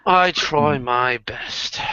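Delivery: very slow put-on British accent; stretched-out British modesty. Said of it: "I love your British accent".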